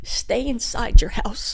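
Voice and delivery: slow ominous whisper. Pretend. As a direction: hush it like a secret. Mock-spooky warning.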